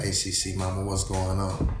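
low, soft voice imitating a white guy; put-on low-pitched white-guy greeting; imitated white guy. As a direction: drop deep and quiet for a mock greeting. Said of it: "A white dude could be like".

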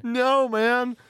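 high, loud laughing protest; laughing no man. Real, not acted. Cohost laughs at the denial, laughing.

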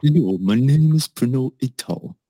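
half-hearted attempt at a British accent; bad British accent. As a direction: badly fake a British accent for an introduction. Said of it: "I don't know how to do the accent. I'm sorry".

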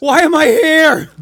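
high, slow bewildered animal voice; confused goat voice. Pretend. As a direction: voice the goat's confusion, slowly. Voicing the flying goat.

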